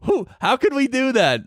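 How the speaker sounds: talking high through laughter; laughing. Real, not acted. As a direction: giggle the words out. Laughing while joking.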